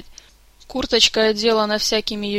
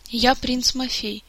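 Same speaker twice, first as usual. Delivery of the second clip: sullen; 4 semitones higher, slower than usual. A narrator's reading. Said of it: "угрюмо представился мальчишка".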